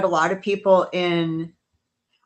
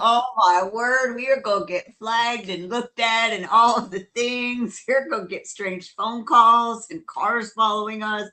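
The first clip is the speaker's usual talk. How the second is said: mock panic; 4 semitones higher than usual. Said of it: "I'm like".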